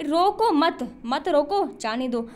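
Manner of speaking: रोको मत drawn out, a break, then जाने दो falling away; pause after मत. Shown as a demonstration. Teacher repeating the contrast for students, break before जाने दो. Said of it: "सिर्फ विराम चिन्ह का फ़र्क है".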